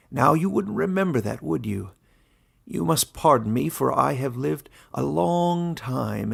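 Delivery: lightly voiced old warden, genial; a genial old ruler opening the meeting. Warden addressing his animal council, lightly voiced and genial.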